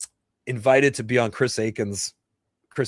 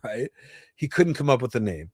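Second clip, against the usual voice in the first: ordinary talk, nothing marked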